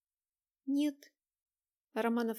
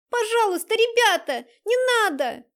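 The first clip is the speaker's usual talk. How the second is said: high loud crying plea; desperate scream; 11 semitones higher, 11 dB louder than usual. A narrator's reading. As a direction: scream begging them to stop. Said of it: "закричала Дайнека". (отчаянный крик со слезами)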